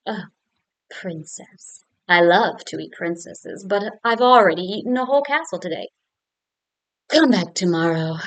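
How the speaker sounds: a loud, booming dragon turning her away; big loud dragon voice; hungry dragon. Acted. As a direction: boom it out like a dragon full from a castle. Dragon greets princess at door.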